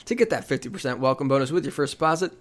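upbeat sponsor read. Acted. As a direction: read it like a radio spot. Reads a sponsor ad.

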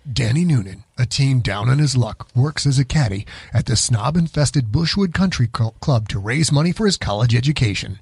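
movie trailer voice. Acted. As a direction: read it like an epic movie trailer. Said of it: "give us your movie trailer voice guy".

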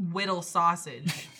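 "Whittle Sausage" said slowly and deliberately; slow, baby-talk "Whittle Sausage"; name pronunciation. Shown as a demonstration. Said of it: "It should be said as such".

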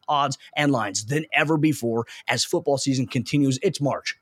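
upbeat sponsor read, steady and polished. Acted. Host reading sponsor ads to listeners, upbeat ad read. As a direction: sell it like a radio spot.

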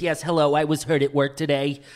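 lightly voiced timid prank caller; a hint of a wounded complainant; Saul. Caller reporting an injury to HR, mildly pitiful. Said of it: "One time Saul called".

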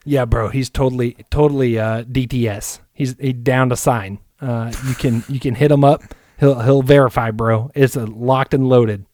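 a hint of a frat guy selling a trade; mock bro GM. Pacers GM pitching a trade as a bro. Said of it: "we're going full Chad".

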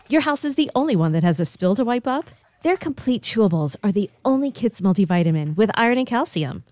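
bright commercial voiceover; ad read. Acted. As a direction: sell it like a TV ad. Upbeat ad read.

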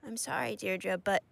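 hushed and hurt after a scolding; chastened apology. Acted. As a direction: apologise meekly, still trying to explain. Child apologises after being yelled at.

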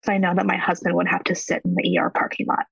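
hurried, nearly unvoiced through tears; real distress, half-whispered; tearful whisper. Real, not acted. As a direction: push the words out while holding back crying. Recounting miscarriage, breaking voice.

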